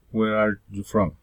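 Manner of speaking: "Where are you from?" falling to the end; wh-question that falls away on "from"; falling intonation. Shown as a demonstration. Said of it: "Following intonation".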